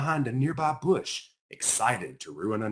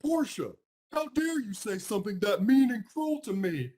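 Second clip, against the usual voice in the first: high, hurt and indignant, pitched up; upset pig voice; 10 semitones higher than usual. Acted. Pig accusing her friend of cruelty, high and indignant.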